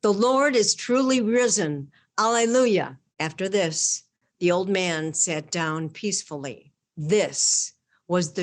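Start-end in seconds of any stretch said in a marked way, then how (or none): 0.0-3.0 raised, higher retold cry of faith; old man answering a communist speech, loud proclamation. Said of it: "said in a loud tone".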